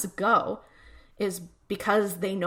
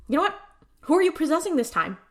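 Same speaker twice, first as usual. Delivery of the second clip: suspicious high demand; 8 semitones higher, faster than usual. Retold or imitated. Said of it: "and he's like".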